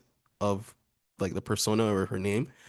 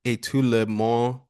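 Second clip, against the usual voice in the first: slow, careful attempt at a French accent. Shown as a demonstration. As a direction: recite it slowly in an amateur French accent. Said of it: "That's my French accent".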